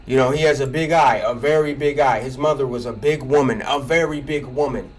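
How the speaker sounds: hammed-up Trump-style insult, dragging out fat pig; a hint of Trump mocking someone's looks. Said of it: "trying to be like Trump and insult people".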